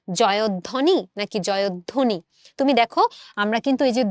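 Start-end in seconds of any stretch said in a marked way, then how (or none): 0.1-2.2 slow, careful জয়ধ্বনি said twice, first with plain অ then with ও-like জয়ধোনি; drawn-out contrast of জয়ধ্বনি, open vowel then ও sound; contrasting pronunciations. Shown as a demonstration. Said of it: "তুমি কি জয়ধ্বনি বলো নাকি জয়ধ্বনি বলো".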